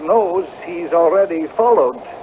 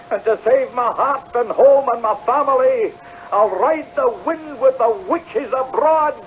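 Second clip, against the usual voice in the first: high, raised desperate warning; desperate threat; 6 semitones higher than usual. Acted. Cornered tenant warning the pub crowd back, high and desperate. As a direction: hold them off like a cornered man.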